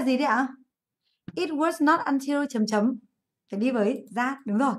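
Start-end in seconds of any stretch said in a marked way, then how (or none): 1.3-3.0 slow, measured pattern with blanks; slow dictation. Shown as a demonstration. Teacher waits for students to complete pattern, slow dictation. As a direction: dictate the structure slowly.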